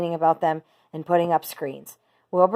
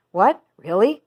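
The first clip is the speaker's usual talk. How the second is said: cried out; 3 semitones higher, 5 dB louder than usual. A narrator's reading. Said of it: "cried Wilbur".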